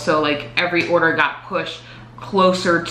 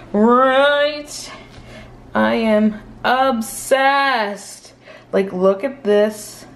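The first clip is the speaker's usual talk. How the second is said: excited; 6 semitones higher, slower than usual. Real, not acted. Gushing over new releases.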